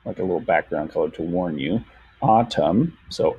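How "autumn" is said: AUTUMN as two clear beats, ah-tum; syllable by syllable. Shown as a demonstration. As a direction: sound out AUTUMN evenly as ah, tum. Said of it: "so that's two syllables".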